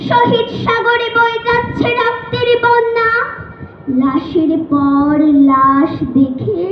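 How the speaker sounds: impassioned, measured declamation with ringing phrases and long pauses; poem recitation. Acted. Student reciting to judges a poem rallying young protesters, impassioned declamation. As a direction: recite a rousing protest poem, line by deliberate line. আবৃত্তি করছি কবি.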